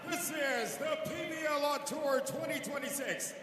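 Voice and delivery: big booming arena intro, words stretched out; game announcer. Real, not acted. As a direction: hype the crowd like a ring announcer. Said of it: "our game announcer".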